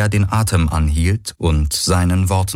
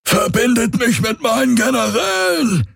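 high roaring command to his servants; furious shout. Acted. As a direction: bellow the order in rage. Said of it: "brüllte er".

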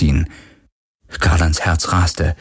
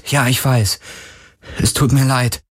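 tender, raised-pitch sympathy; compassionate; 5 semitones higher than usual. A narrator's reading. He comforts the poisoned spirit, compassionate. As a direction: console a suffering friend. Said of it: "sagte Garland mitfühlend".

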